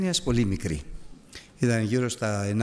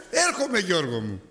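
lightly voiced wife, higher and sing-song; mock sweet wife; 7 semitones higher than usual. Wife calling to her husband from the mirror, mock sweet. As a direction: call out sweetly while finishing makeup.

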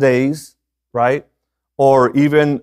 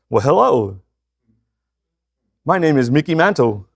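put-on lightly disguised voice of an old ballplayer; disguised Mickey Mantle voice. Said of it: "I changed my voice".

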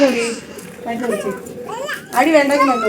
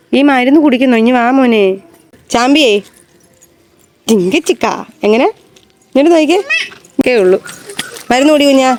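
firm coaxing; 5 dB louder than usual. Acted. Mother insisting child drink medicine.

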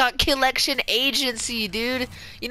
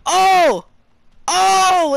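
excited shout; 6 semitones higher, 6 dB louder than usual. Real, not acted. Clean kill.

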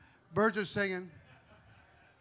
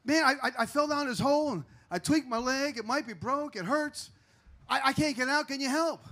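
pleading; 5 semitones higher than usual. Acted. Trapped man pleads for help.

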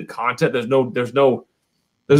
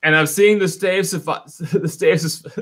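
tripping over the name, laughing; tipsy stumble; 3 semitones higher than usual. Real, not acted. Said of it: "I can't even say it anymore. I'm drunk".

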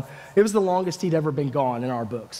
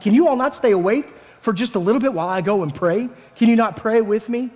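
reproachful plea; 6 semitones higher than usual. Acted. Jesus wakes the sleeping disciples, reproaching.

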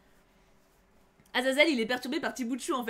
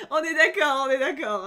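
laughing; 3 semitones higher, 7 dB louder than usual. Real, not acted. Laughing agreement with chat.

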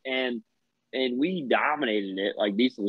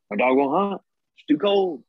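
higher-pitched mock complaining; retold complaint; 6 semitones higher than usual. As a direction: imitate a whining excuse. Imitates partner's excuse about dog.

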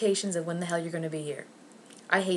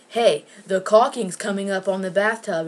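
loud, matter-of-fact heads-up; retold announcement; 6 dB louder than usual. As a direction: point out the problem loudly. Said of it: "If I say".

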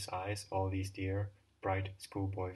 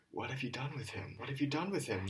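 heartbreaking wail; 5 semitones higher than usual. Acted. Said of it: "began to wail in heartbreaking voice".

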